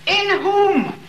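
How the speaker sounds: "whom" hit high and loud, pulled out; stress on whom. Shown as a demonstration. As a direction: lean hard into "whom" in "in whom". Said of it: "I'm sure this is the way to read it".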